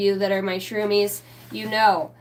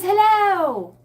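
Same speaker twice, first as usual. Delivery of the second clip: high, loud squeaky hello; worm voice; 11 semitones higher, 6 dB louder than usual. Retold or imitated. Quoting the labyrinth worm to viewers, high and loud. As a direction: call it out like a tiny creature. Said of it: "What does he say in the labyrinth?".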